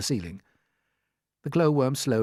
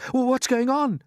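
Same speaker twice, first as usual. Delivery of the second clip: stammering fright; 13 semitones higher, 4 dB louder than usual. Acted. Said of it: "cried James".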